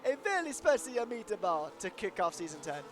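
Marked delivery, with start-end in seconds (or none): 0.1-1.8 hammed-up Italian accent on the phrase; playful attempt at an Italian accent; mock Italian accent. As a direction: put on a jokey Italian accent. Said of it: "somebody making fun of the Italians would say".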